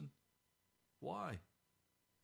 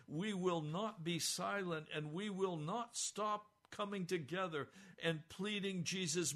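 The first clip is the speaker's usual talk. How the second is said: louder, defiant church standing firm; bold declaration; 4 semitones higher, 3 dB louder than usual. Pretend. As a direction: declare it with backbone. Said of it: "stand up and say".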